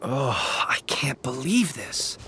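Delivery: whispered, low and fed up; whispered complaint. Acted. Caravan leader grumbling about the ambush in a whisper. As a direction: hush it, grumbling to yourself.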